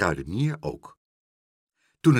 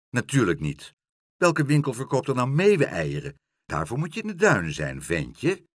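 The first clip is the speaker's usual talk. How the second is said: a hint of a scornful shopkeeper, louder; lightly voiced baker's wife; 2 semitones higher, 4 dB louder than usual. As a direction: brush the boy off with mild disdain.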